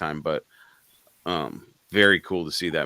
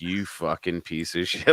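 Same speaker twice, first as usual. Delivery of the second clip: slow, restrained retelling of a furious curse; retold anger; 3 semitones lower, 5 dB quieter, slower than usual. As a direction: curse it slowly, keeping the anger low. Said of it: "I was so mad".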